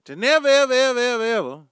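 loud rising evers that fall at the end; emphatic never ever. Real, not acted. Third round of the vow.

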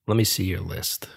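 lightly voiced old stranger, low and soft; a hint of a raspy old barfly; quiet, low, lightly put-on old man's voice; a singer. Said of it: "he speaks with an old singer's voice".

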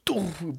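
dull "doof" impact noise; imitated crash. Storyteller mimics a homie breaking through ice, thudding crash. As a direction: mimic ice giving way underfoot. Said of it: "and then she goes".

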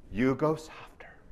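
slow, unvoiced whisper. Shown as a demonstration. Lecturer showing how to answer a yeller, whispered. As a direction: drop to a whisper to calm them down. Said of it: "When somebody goes louder".

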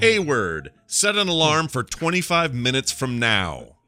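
slow, very clearly enunciated order; clear diction command. Shown as a demonstration. Host setting an alarm by voice, slow clear diction. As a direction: spell it out carefully for the smart speaker. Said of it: "saying it very clearly with very good diction".

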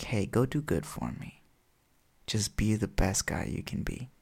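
lightly voiced schemer, soft and measured; coaxing villain. Lex Luthor persuades the boy to do good for him, lightly coaxing. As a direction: softly coax with pauses between phrases.

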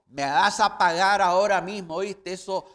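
loud, threatening demand for money; furious servant demanding his hundred denarii; angry demand. Retold or imitated. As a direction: shout at the debtor, choking him. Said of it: "le ahogaba diciendo".

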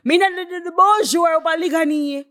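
high-pitched mimicry of a voice note; imitating voice-note man. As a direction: call it out high, like the man on the recording. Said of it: "heard a voice note with this man say".

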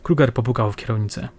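plain reading voice

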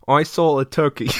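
stilted British impression, like a computer voice; accidentally robotic British accent; robotic Michael Caine attempt. Warming up a celebrity impression for a friend, robotic. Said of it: "You sound like Microsoft".

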